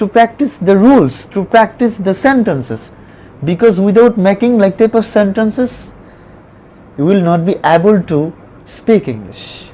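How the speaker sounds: very slow, each word spaced out for the class; slow dictation pace. Shown as a demonstration. Teacher slowly dictating an English sentence to students, very slow. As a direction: spell it out slowly like a teacher at the board. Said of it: "teacher dictating English slowly".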